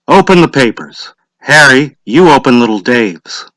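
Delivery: a hint of a village official calling out; lightly voiced lottery official; Mr. Summers' voice. A narrator's reading.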